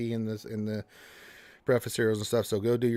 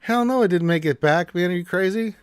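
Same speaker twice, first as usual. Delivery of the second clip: character voice; 6 semitones higher, 7 dB louder than usual. Acted.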